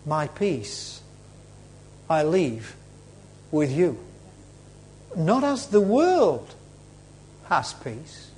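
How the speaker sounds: soft, low and unhurried; still small voice. Acted. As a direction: speak it quietly, with gentle pauses. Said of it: "you hear the still vo-, small voice".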